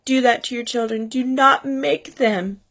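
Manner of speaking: high, tearful voice breaking through the words; heartbroken, crying while speaking to viewers. Real, not acted. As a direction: talk through real tears, voice pinched high. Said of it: "I'm sorry for crying".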